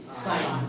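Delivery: साइन as "sine", with no g sound; silent g. Shown as a demonstration. Teacher repeating the answer for students, silent g. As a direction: go straight to n in साइन. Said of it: "जी का pronunciation हमने".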